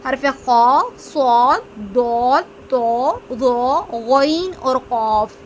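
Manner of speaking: खा, सॉद, दौल said heavy and full-mouthed, slowly; सॉद and कॉफ with a thick, rounded Arabic sound; Arabic heavy letters. Shown as a demonstration. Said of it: "हरूफ मुस्तालिया हमारे पास सात हैं".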